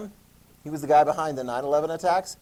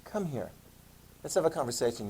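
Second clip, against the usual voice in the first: softer, ominous invitation; lightly voiced dreaded parent; mock ominous summons; 6 dB quieter than usual. Teacher voices a parent calling a kid in, softly ominous. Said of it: "anybody in your life that said".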